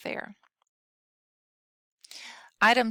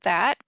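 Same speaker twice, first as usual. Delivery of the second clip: "that" said louder with a rising tune; "that" punched out louder, rising; stress on that; 4 dB louder than usual. Shown as a demonstration. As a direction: hit the word "that" as the example. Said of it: "When you have the word".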